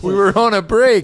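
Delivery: Ross impression. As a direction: whine it like Ross. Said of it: "Ross and Rachel".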